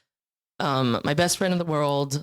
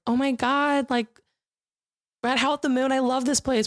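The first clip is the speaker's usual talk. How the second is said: mock excited; 7 semitones higher than usual. Acting bachelorette scene at bar.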